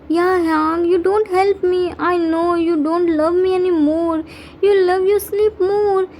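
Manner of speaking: mild whiny pretend sob; fake crying. Cook guilting Yungi on the phone, mild fake crying. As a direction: play hurt to guilt him. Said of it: "He started fake crying".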